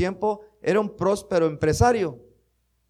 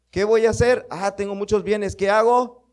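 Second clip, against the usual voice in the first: fretting rich man; 5 semitones higher, 4 dB louder than usual. Acted. Preacher acts out rich man's worry.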